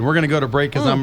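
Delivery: speaking with a mouth full; words around a bite of sundae; cheeks stuffed full. Real, not acted. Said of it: "can't talk with my mouth full".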